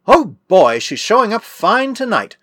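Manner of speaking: high, drawn-out delighted exclamation; sudden exclamation. A narrator's reading. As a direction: open loud and high, then stretch it out. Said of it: "suddenly exclaimed Mark".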